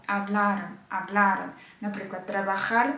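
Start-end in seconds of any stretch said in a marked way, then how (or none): 0.1-1.5 hablaron with firm stress on LA; stress on middle syllable. Shown as a demonstration. Teacher adding the ending, hablaron stressed on LA. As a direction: lean on the LA in hablaron. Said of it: "І тоді додаємо його до слова".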